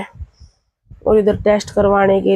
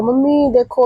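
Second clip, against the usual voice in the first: imitated child's higher-pitched tattling; lightly mimicked complaint, pitched up; mock complaint; 4 semitones higher than usual. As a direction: imitate a kid complaining to mum. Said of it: "फिर आके शिकायत करो".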